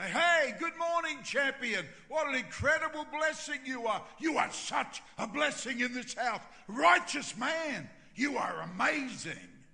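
high, very loud, gushing greeting; effusive praise. Retold or imitated. Pastor getting in first with the Texan, loud and effusive. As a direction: shout lavish praise, stretching the last phrases.

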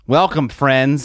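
slow, hushed documentary welcome; a hint of a British wildlife narrator; lightly voiced nature host; mock Attenborough voice. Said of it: "my best David Attenborough accent".

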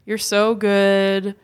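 slow, drawn-out mock praise; mock sincerity. One host acting out the bandit mocking his pursuer, mock sincerity. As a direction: lay on the fake praise slowly. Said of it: "he was sort of mocking him".

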